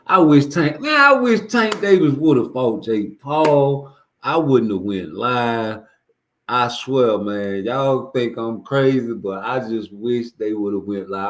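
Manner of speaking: drawn out like he's begging for it; excited wish. Real, not acted. Begging his viewers he wishes the fight happened, excited.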